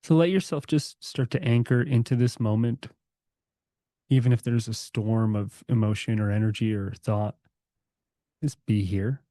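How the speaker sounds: calm, unhurried meditation guide; guided meditation. Acted. Guiding the group to relax their bodies, calm meditation voice. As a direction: ease the group into stillness, gently.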